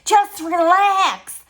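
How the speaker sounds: high, loud, very slow mock meditation coo; mocking Doreen Virtue. Mocking a meditation teacher she finds irritating, high, loud and slow. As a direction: stretch it out like an irritating guru. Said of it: "her voice is the most irritating voice I've ever heard".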